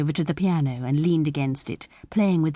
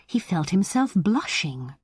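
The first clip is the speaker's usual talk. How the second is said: ordinary delivery, nothing marked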